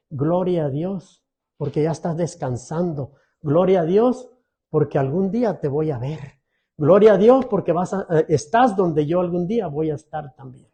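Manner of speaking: quiet, restful voice of a believer; calm faith. Retold or imitated. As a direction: say it serenely, at peace. Believer's calm words at a death.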